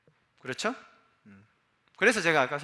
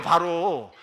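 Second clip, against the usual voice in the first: usual speaking voice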